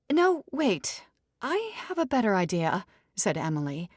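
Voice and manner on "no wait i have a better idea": high, bright burst of inspiration; sudden idea. Acted. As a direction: jump in with an idea.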